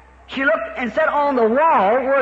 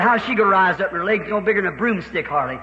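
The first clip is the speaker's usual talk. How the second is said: lightly voiced Satan; 5 semitones lower than usual. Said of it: "Satan said".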